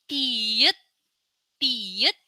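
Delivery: tiet said clearly; letter name demo. Shown as a demonstration. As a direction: model tiet twice.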